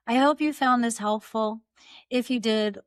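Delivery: ordinary talk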